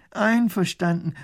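high, loud, slow call; professor calling out. Acted. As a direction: shout agreement across. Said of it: "ruft auch Professor Pfiffikus".

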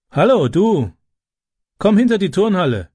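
herrischer Befehl, höhere Stimme; befehlend. A narrator's reading. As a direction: kommandiere den Kleineren herum. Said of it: "befahl er". (im Befehlston)

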